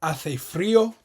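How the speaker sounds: Hace said as "ace", no H sound at the start; silent h. Shown as a demonstration. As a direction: drop the H in Hace, just "ah-theh". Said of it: "we don't pronounce the H".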